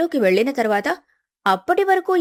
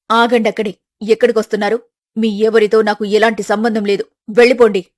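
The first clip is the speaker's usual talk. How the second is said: bar the door to them, getting louder; angry mother; 5 dB louder than usual. Acted. Mother turns family away at door.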